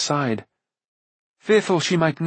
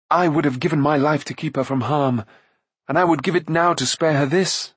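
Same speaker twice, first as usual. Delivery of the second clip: lightly voiced Taren, a little raised in pitch; a touch of anguish in a character voice; earnest young hero; 3 semitones higher than usual. Taren to Gwydion about sparing her, lightly voiced anguish.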